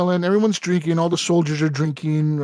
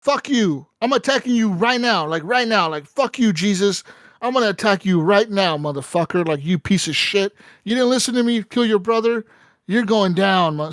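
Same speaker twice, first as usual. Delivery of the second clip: raised, hammed-up rant at the king; imitating a bishop declaring war; mock furious bishop; 4 semitones higher than usual. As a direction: play the traitor priest barking threats. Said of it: "the bishop is like".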